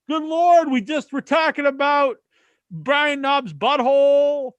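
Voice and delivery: high, loud disbelief; exasperated. Real, not acted. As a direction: throw up your hands in disbelief. Exasperated rant about caller.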